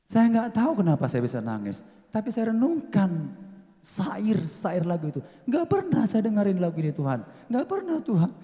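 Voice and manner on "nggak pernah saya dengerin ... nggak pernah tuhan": crying out to God. Retold or imitated.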